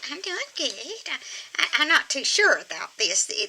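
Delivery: high, conservative Southern church-lady voice. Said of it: "she's a conservative uh, Southern church lady".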